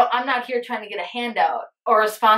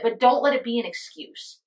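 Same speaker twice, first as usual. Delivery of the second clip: ordinary delivery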